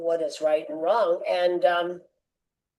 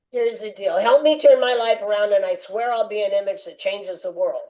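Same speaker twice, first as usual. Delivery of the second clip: negotiating with God. Retold or imitated. Addict on his knees bargaining with God, urgent. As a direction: strike a deal with God, urgent. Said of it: "Me negotiating again".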